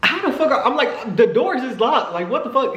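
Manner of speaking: high, laughing "how are the doors open"; laughing disbelief. Retold or imitated. Stunned that Trent got in the locked car, laughing high. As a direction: cackle through the outrage.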